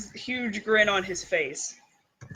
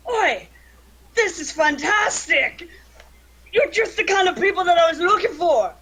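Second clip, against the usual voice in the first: higher, excited dwarf voice; delighted dwarf; 6 semitones higher, 3 dB louder than usual. Acted. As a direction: exclaim it as a thrilled, hearty dwarf. Game master voices delighted dwarf.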